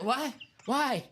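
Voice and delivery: high, loud, laughing outburst of disbelief; mock outraged yelp. Imitating a host yelling at a silly caller, laughing. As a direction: squeal it again, cracking up. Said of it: "He's like".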